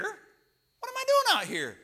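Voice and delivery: loud, high, drawn-out mock panic; slow, exaggerated high yell; acted panicked outcry. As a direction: cry it out in hammed-up dismay. Doubt escalates to panicked cry.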